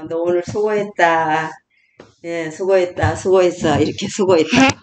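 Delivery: stroke the shoulder and thank yourself; tender self-praise. Shown as a demonstration. Grandmother stroking her shoulder, tenderly thanking herself. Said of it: "쓰다듬어 주면서".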